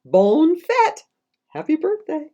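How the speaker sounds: big high shout of Bonne fête; loud cheer. Shown as a demonstration. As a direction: belt out Bonne fête like a party crowd. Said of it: "One more time".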